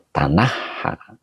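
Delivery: "Tanaha" drawn out slowly, each syllable clear; slow model reading. Shown as a demonstration. Teacher slowly models "Tanaha" for live viewers. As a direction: spell out "Tanaha" slowly for the class. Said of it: "Bagaimana cara bacanya?".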